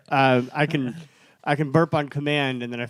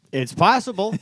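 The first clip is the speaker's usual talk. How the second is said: teasing; 7 semitones higher than usual. Pretend. Teasing repeated claim.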